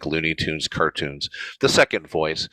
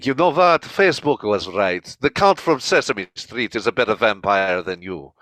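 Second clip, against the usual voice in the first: lightly voiced vampire insult; Dracula put-down. Dracula insulting Edward in the sketch, mock vampire sneer. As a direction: sneer it like the Count. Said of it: "deliver my favorite line".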